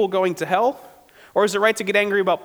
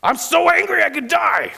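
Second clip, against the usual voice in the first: put-on high, loud childish whine; mock a sulking toddler's tantrum; much higher mocking wail; whiny Jonah; 11 semitones higher, 4 dB louder than usual. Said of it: "But Jonah here saying what?".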